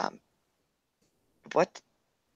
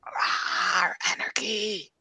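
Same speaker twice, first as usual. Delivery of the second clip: excited cry; 6 semitones higher, much slower than usual. Pretend. Playful mock anarchy cry.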